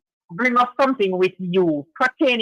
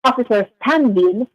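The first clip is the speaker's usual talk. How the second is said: phone line cutting out; choppy broken-up call audio; breaking up. Real, not acted. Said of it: "No, you're breaking up".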